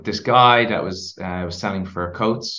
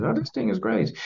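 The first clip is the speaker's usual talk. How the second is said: retold dad; 13 semitones higher, 4 dB quieter than usual. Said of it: "he was".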